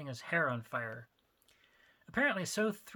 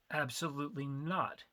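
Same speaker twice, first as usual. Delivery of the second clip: flat. Acted. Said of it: "he stated flatly".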